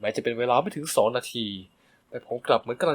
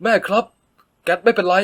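higher, louder, anxious plea; urgent plea; 5 semitones higher, 6 dB louder than usual. A narrator's reading. Son begging his angry mother to stop, urgent. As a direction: hold her back with your voice.

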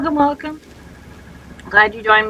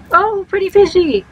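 much higher, louder cooing; delighted coo; 10 semitones higher, 6 dB louder than usual. Real, not acted. Player delighted by a fish on screen, high coo.

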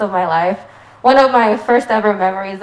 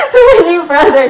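higher, louder toast call; cheering toast; 7 semitones higher, 8 dB louder than usual. Real, not acted. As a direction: raise the glass and call it out.

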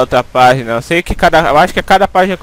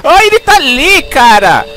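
high, urgent shout falling at the end; startled, high-pitched alarm; alarmed cry; 9 semitones higher, 4 dB louder, slower than usual. Real, not acted. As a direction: cry out at spotting the monster. Spots the monster again.

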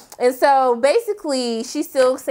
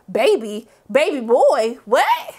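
mock shock, pitched way up; stunned reaction; slower than usual. Imitating his face at the news, stunned. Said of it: "saw his face looking like".

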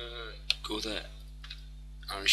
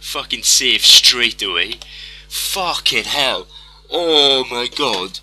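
dazed disbelief; 7 dB louder, much slower than usual. Real, not acted. Dazed after win.

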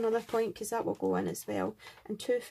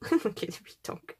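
whisper; 2 semitones lower than usual. Real, not acted. Admiring die cuts.

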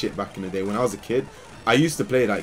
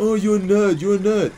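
mocking taunt; 10 semitones higher, 6 dB louder than usual. Friend taunting again.

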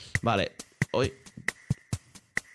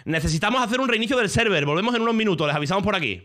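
reading out the announcement, a bit higher; mock official read of the notice; 6 semitones higher, faster than usual. Reading the server notice to chat, lightly official.

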